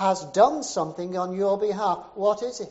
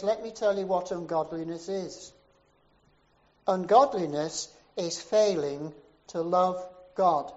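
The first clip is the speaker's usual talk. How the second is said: building preacher's cry; 6 dB louder than usual. Retold or imitated. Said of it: "And then he says".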